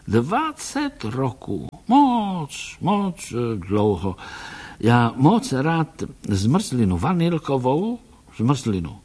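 put-on dreamy old foreigner remembering Vienna; old Viennese doctor. Old Viennese doctor, broken Czech.

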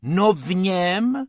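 high, slow little rabbit voice; high-pitched character, drawing the words out; Bob. A narrator's reading. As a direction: explain it as a small cartoon rabbit. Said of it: "chtěl sáhnout po klobouku Bob".

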